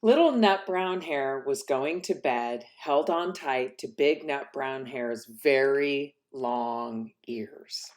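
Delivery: put-on bright, lively read-aloud for children; storybook reading. A narrator's reading. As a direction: read it like bedtime story time. Reads picture book to children.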